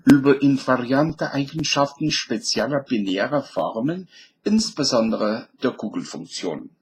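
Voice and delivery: German read in a southern accent. Shown as a demonstration. Lecturer rereads the German title for fun, southern accent. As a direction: put on a southern German accent with rolled sounds. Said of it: "And now in a southern accent".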